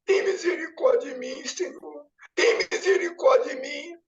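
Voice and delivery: tearful whispered begging that swells; crying plea. Retold or imitated. Kneeling before Jesus, crying out for mercy. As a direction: whisper then break into sobs. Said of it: "e eu chorando".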